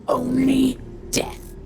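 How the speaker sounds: slow, high, ominous pronouncement of Only death; intoning Only death like a doom; grim vow. Acted. Dark vow, then echoed whisper.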